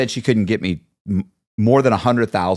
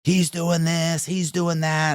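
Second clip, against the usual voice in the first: mock phone chatter; 8 semitones higher, 3 dB quieter, slower than usual. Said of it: "they start asking questions".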